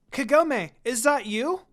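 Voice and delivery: high, loud call across the field; a young girl calling out in surprise. A narrator's reading. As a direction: call her name from a distance. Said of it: "A familiar voice called out her name".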